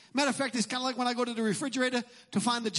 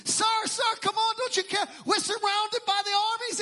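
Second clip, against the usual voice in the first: higher, calling out in alarm; panicked servant; 6 semitones higher than usual. Retold or imitated. Servant waking Elisha about the armies, with urgent alarm. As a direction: shake the master awake, pleading. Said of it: "This is Elisha's servant".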